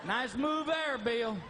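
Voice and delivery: high, slow, mock-impressed dog voice; be the dog watching from the bed edge; dog commentating. Dog at the bed edge teasing Bill, high and mock-impressed. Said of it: "Just like".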